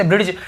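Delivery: ब्रिटिश said as "brid-j", hard D before the J; D sounded. Shown as a demonstration. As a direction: pronounce the D in bridge where ब्रिटिश is written. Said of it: "ऐसे भी पढ़ते होंगे".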